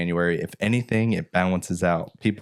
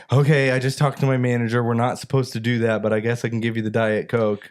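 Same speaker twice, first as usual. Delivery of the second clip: mildly snippy employee impression; rude; 3 semitones higher than usual. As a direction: lightly mimic a grudging drive-through worker. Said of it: "she was so rude".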